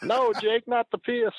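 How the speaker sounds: mock falsetto plea; Honky Tonk Man. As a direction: beg Jake in a very high impersonated voice. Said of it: "with his voice".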